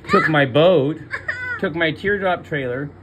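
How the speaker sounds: a disbelieving laugh breaking through; bitter laugh. Real, not acted. Listing what the tow crew took, laughing bitterly. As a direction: laughs through the losses, near tears.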